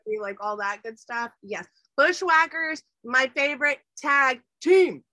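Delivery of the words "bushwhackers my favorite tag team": loud fan shout for his favorite tag team; excited shout. Real, not acted. Wrestling nerd shouting out his favorite tag team, excited and loud. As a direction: cheer it like a wrestling fan at ringside.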